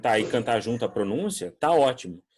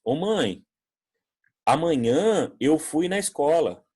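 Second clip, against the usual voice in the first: put-on child voice; 4 semitones higher, 4 dB louder, slower than usual. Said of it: "lembra de alguma vez ter feito isso".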